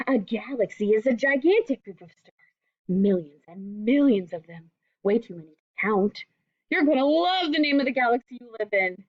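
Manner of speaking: gentle storybook reading voice; reading to children. Acted. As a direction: read it like a picture book to kids. Teacher reads picture book aloud.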